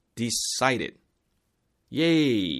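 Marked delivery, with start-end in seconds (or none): 0.2-1.0 decided, stressed on the second syllable -ci-. English pronunciation lesson for Korean learners: stress on second syllable of decided. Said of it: "두 번째 음절에 강세가 있습니다".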